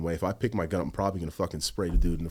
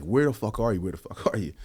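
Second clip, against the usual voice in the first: retold yell; 4 semitones higher than usual. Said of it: "So I'm yelling".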